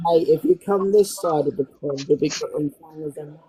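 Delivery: like a bad mic, words smothered; muffled. Real, not acted. British friend's muffled line to the group. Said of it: "You're muffled".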